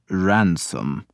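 a mild, gentle correction; gently. A narrator's reading. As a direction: correct him softly and kindly, understated. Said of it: "corrected him gently".

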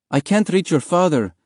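high-pitched anxious mother; worried. Acted. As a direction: fret that the call won't go through. Worried mother trying the phone.

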